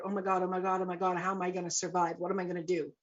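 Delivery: understated, fretful spiral of worry; retold fearful panic. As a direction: run the questions together in mild panic. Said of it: "It's very fearful".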